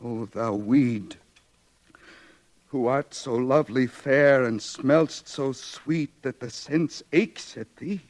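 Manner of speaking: declaimed verse; Shakespeare recital. Acted. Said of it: "quoting Shakespeare".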